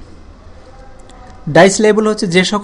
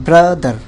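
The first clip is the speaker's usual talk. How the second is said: ব্রাদার as two beats, ব্রা then দার; syllable by syllable; slower than usual. Shown as a demonstration. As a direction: stretch ব্রা, then drop onto দার. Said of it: "তো এই অংশটুকু যেরকম".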